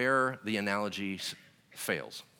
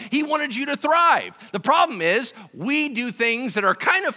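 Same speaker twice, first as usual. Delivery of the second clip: loud, high, driving sermon voice; full-force preaching; 12 dB louder than usual. Acted. Pastor preaching at full force to the congregation. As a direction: preach it hard to the room.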